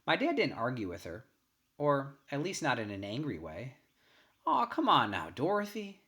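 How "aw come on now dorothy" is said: higher and louder, drawn-out soothing plea; easygoing father. A narrator's reading. Father calming his wife, slow and easy. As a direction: gently talk her down. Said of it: "he might say to her real slow".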